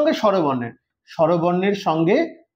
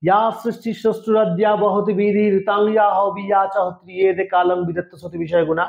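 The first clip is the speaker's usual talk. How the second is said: shloka recitation. Shown as a demonstration. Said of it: "আমরা শ্লোক যখন উচ্চারণ করি".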